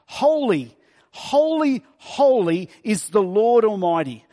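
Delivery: rising angelic call on the first two holys; angels calling. Acted. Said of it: "they were calling to one another".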